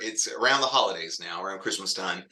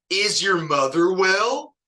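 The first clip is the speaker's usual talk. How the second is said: troll sign slogan; 8 semitones higher, 5 dB louder, slower than usual. Retold or imitated.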